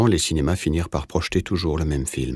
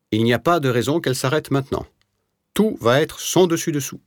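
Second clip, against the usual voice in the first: bright, higher, gleeful little man; cheerful; 8 semitones higher than usual. A narrator's reading. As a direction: relish the coming chaos, pitched up high. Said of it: "constata avec une sorte d'enjouement". (avec enjouement, voix plus aiguë)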